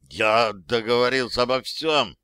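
gulping down a lump in the throat; swallowing mid sentence. Acted. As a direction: swallow hard mid phrase. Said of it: "сглатывая комок в горле".

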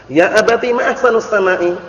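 a hint of a young girl's voice; lightly voiced little daughter asking her father; teacher lightly voicing the daughter's wrong phrase; daughter's mistaken words. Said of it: "Anak perempuannya keliru mengucapkannya".

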